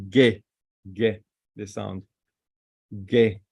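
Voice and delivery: "Ge" as a hard g with a short e, repeated; letter sound demo. Shown as a demonstration. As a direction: sound out "Ge" as separate short syllables. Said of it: "we say the sound is ge".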